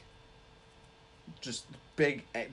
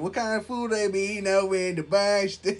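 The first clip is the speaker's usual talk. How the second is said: put-on Boston accent; 4 semitones higher than usual.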